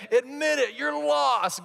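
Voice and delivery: high-pitched in-your-face accusation; acted badgering, pitch jumping up; confrontational demand. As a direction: press them hard to confess. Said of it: "Getting in someone's face and saying".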